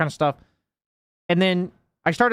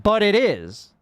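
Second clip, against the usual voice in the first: mock insistent retort, higher pitch; insistent comeback; 4 semitones higher, slower than usual. Imitating players disputing his point, mock insistent. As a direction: push back like a stubborn objector. Acting out their stubborn comeback.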